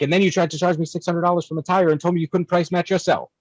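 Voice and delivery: high-pitched, incredulous mock rant; lightly mocking himself arguing with the dealer; exasperated retelling. Retold rant at service manager.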